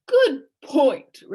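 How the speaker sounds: high, loud exclamation; eager cry. Acted. Policeman agreeing with Milo, cried out. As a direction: brighten up and blurt it. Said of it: "cried the policeman".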